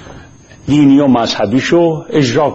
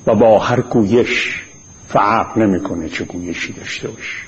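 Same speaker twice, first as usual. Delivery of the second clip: formal opening address; 2 semitones lower than usual. Real, not acted. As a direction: address all Iranians with deliberate pauses.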